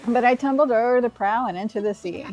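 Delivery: a hint of a jolly seagull pirate, arr-ing along; lightly voiced pirate. Reading the stranded pirate's lines to the player, mild pirate voice. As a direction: read it like a sleepy, hearty old sea dog, light touch.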